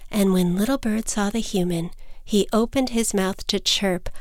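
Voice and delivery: plain reading voice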